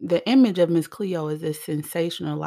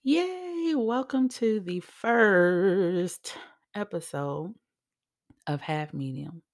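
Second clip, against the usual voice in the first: elated show opener with drawn-out words; excited, getting loud; 4 semitones higher, slower than usual. Real, not acted. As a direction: greet listeners with real, stretched-out excitement. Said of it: "sorry for getting loud".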